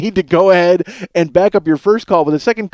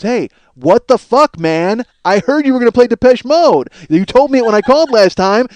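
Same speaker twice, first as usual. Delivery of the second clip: irate caller; 4 semitones higher, 3 dB louder than usual. Retold or imitated. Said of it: "and goes".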